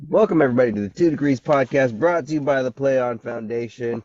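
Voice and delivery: loud, upbeat show opener; podcast host intro. Acted. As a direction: announce it like a radio host.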